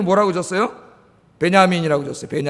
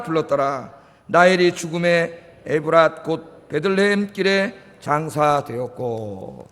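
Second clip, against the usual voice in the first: slow, measured Bible reading; scripture reading; slower than usual. Acted. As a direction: read the verses aloud slowly and solemnly. Congregation reads scripture aloud. (느리고 엄숙한 성경 낭독)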